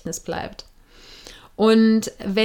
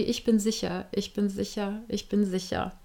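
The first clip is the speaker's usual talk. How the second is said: softer, quiet repeated affirmation; calm self-reassurance; 6 dB quieter than usual. Shown as a demonstration. Calming yourself during a breathing exercise, soft and reassuring. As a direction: hand on heart, softly reassure yourself.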